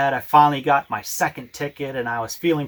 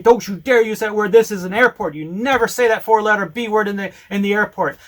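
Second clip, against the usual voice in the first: retold yelling; 4 semitones higher than usual. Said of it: "started yelling and pointing her finger".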